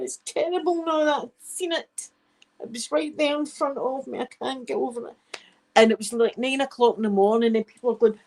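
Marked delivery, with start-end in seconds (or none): 0.0-5.2 distraught Mary. Retold or imitated. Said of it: "She goes".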